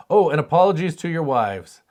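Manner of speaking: normal talking voice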